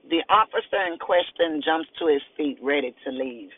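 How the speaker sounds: steady reading of a crime novel; story narration. A narrator's reading. Author reading her novel excerpt to listeners, measured narration. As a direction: read it like an audiobook, even and clear.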